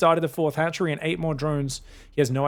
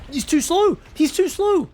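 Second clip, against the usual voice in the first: high, louder rising alarm; excited; 12 semitones higher, 4 dB louder, slower than usual. Real, not acted. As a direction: cry it out as the play goes wrong. Caster reacts as drones trapped.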